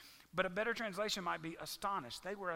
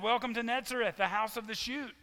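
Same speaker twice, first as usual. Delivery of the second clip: louder, higher, like a town sign greeting; 4 semitones higher, 6 dB louder than usual. Pretend. Pastor reading an imagined town sign, louder and higher. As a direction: announce it like a welcome sign. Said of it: "It would have said".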